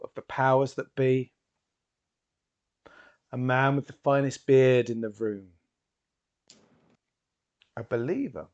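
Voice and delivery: loud theatrical announcement, easing toward the end; stage showman. Acted. Hypnotist presents his volunteer to the crowd, grand and projected. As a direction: work the crowd with grand, spaced-out phrases.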